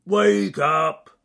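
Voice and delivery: loud, high holler; shouted wake-up call. Acted. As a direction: yell to rouse a sleeper below. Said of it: "he shouted down the entrance".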